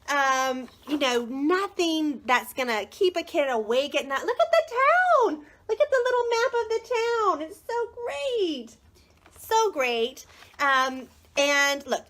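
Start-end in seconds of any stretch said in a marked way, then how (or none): 4.3-10.3 high-pitched delighted squeal over the book; excited gushing. Real, not acted. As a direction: gush in a high, sing-out voice. Gushing over the book's map.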